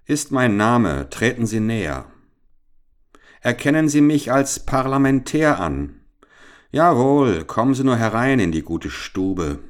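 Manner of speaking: put-on bold young Richard. A narrator's reading. Richard sizing up the trap: lightly voiced confident boy.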